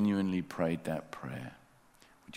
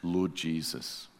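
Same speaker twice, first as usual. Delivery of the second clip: slow prayer; slower than usual. Shown as a demonstration. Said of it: "whisper this yourself".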